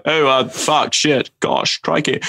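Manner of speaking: lightly voiced hesitant Englishman; Hugh Grant. Practising the impression while cooking, light hesitant Englishman voice. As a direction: lightly put on a fumbling, apologetic stammer. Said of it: "I remember learning Hugh Grant".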